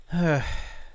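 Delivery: high resigned sigh; sigh, giving in; exasperated sigh. A narrator's reading. Grandson gives in with sigh.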